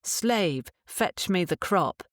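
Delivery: calm relaxed tone. Shown as a demonstration. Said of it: "in a calm and relaxed tone".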